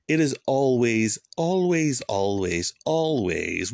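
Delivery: preacher hammers home his warning, repeating "always"; building emphasis. Real, not acted. Emphatic repetition in sermon.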